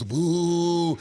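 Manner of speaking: long drawn-out boo; imitated crowd boo. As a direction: mimic a stadium crowd booing. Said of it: "listening to all the boos".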